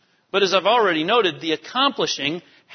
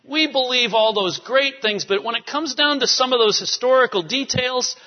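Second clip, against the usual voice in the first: higher, mildly mocking voice of doubters; mocking skeptics; 5 semitones higher than usual. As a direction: send up the skeptics lightly. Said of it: "sometimes people say".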